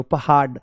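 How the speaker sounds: पहाड़ mispronounced as पहाड, with a stop; hard ड in पहाड़. Shown as a demonstration. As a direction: end पहाड़ on a hard ड, no flap. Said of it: "इसमें पहाड़ क्यों नहीं बोल रहे". (पहाड़ को बिना नुक्ते के पहाड बोलें)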